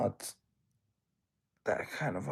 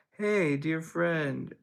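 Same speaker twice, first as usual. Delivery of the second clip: mock grand greeting; 4 semitones higher, 5 dB louder, much slower than usual. Greeting a viewer in character.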